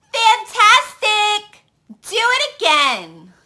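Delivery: high, loud cheer, slow fantastic; shouted. Acted. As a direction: egg him on loudly. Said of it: "Elizabeth shouted".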